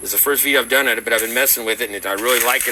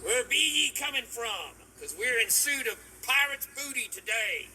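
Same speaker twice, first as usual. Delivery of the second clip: pirate voice; 7 semitones higher, 10 dB quieter than usual. Acted. Pirate persona intro.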